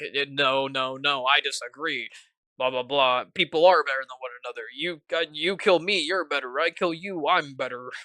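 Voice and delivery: a hint of a dismissive mercenary boss; villain's retort. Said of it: "I absolutely nailed that".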